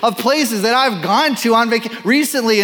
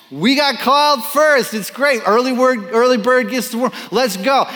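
lucky and eager; 5 semitones higher than usual. Retold or imitated. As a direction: play the thrilled day labourer, a bit higher. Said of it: "they probably felt like pretty lucky guys".

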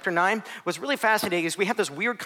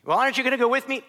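whiny disciple; 7 semitones higher, faster than usual. Acted. Disciples protesting to Jesus.

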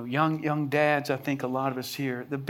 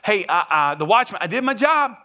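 raised, shrugging self-satisfaction; smug dismissal; 5 semitones higher, 7 dB louder than usual. Retold or imitated. Pastor imitating an indifferent watchman, smug and dismissive. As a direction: brush it off, job done. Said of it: "this kind of a".

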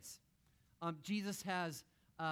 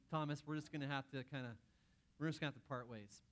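softer, quick, awkwardly polite letting-go; mock breakup talk; 3 dB quieter, faster than usual. Pretend Jesus cutting Thomas from the team, softer mock-apologetic. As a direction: let him down gently like a boss.

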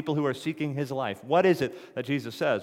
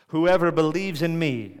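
louder, higher proclamation; Jesus crying out at the feast, loud and high; cried out; 5 semitones higher, 7 dB louder than usual. A narrator's reading. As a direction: call it out to the whole crowd. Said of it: "Jesus stood up and cried out".

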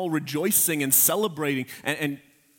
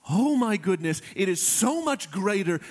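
excited exclamation; 5 semitones higher than usual. Real, not acted. Preacher marvels at heaven.

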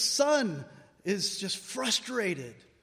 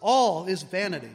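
ALL hit hard and louder, then a falling close; stress on all; 7 dB louder than usual. Shown as a demonstration. Preacher quoting Ecclesiastes to the congregation, stress on "All". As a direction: lean on the word "All" as a pronouncement. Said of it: "why does he say it that way?".

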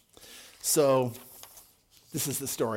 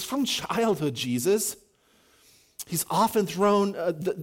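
aching. Acted. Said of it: "hear the aching in his voice".

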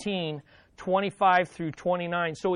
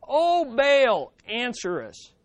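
higher, louder plea that drops off; pleading cry; 4 semitones higher, 3 dB louder, slower than usual. Retold or imitated. Prophets of Baal pleading, a mild begging cry. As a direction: cry up to an idol. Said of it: "here's what they're pleading".

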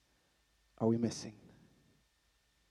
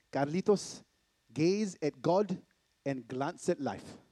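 dad's gentle saying; slower than usual. Retold or imitated. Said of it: "My dad used to say it this way".

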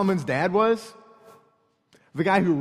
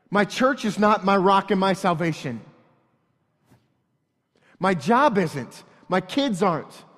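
rising, pressing sermon voice; preaching at full force; 3 dB louder than usual. Acted. Pastor listing false rocks to congregation, building loud. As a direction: hammer the list home, louder as it goes.

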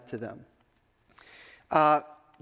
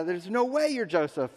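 higher-pitched retold disbelief; shocked disbelief; 5 semitones higher than usual. Brothers answering Joseph's revelation, mildly acted shock. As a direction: play mild astonishment, pitch lifted. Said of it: "They're shocked".

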